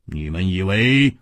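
low, tense angry opening; restrained anger, cut short. A narrator's reading. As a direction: start an indignant retort, pitched low. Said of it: "李玉涵怒道".

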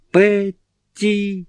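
high piercing cry of the name; piercing scream. A narrator's reading. Carrie screaming to stop Petty's knife. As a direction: shriek the name to stop her. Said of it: "пронзительно закричала Кэрри".

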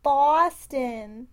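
put-on slow, lightly done Boston accent. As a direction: drawl Boston like a local. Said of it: "That's my impression of a Boston accent".

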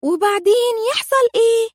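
high, amazed question; mock astonished child; utter amazement. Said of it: "روكا في قمة الاندهاش".

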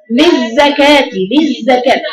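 للزكاة stretched very slowly, no break after للز; slow careful recitation of للزكاة; slow model. Shown as a demonstration. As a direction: draw للزكاة out slowly as one joined word. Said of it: "قوليها ازاي بقى تاني".

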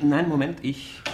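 jumping high and loud in surprise; sudden surprise. Acted. Receptionist suddenly noticing the suite is free, surprised. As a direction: catch yourself with a surprised start.

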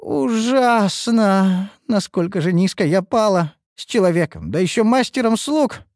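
high, drawn-out wail of shame; theatrical despair at her own downfall; anguished lament. A narrator's reading. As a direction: moan it out in high-pitched horror. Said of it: "издала сдавленный стон-вздох".

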